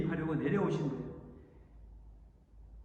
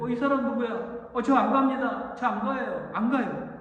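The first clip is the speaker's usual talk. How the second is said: loud, higher, stubborn protest; stubborn refusal; 5 semitones higher, 6 dB louder than usual. Acted. Jacob refusing God's messenger, loud stubborn protest. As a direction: dig in and shout him down.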